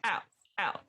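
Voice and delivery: put-on stern librarian with an American accent; American-accented telling-off. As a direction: throw them out in an American accent. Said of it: "Oh, sorry, American accent".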